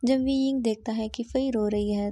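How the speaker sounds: ordinary delivery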